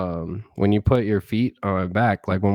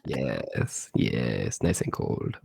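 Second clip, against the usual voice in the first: choppy call audio; bad connection; 9 semitones lower, 7 dB quieter, much slower than usual. Real, not acted. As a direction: voice breaking up. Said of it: "your voice is breaking up".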